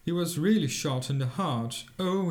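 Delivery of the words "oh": put-on a touch of a hurt old man's cry; mild pained cry. Old poet, shot in the heart, gives a mild pained cry. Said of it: "he cried".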